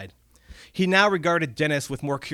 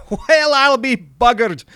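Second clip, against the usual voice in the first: loud, slow, high Scottish goblin exclaim; amazed goblin; 12 semitones higher, 11 dB louder, slower than usual. Acted. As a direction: crow it out in disbelief. Goblin laughs in disbelief.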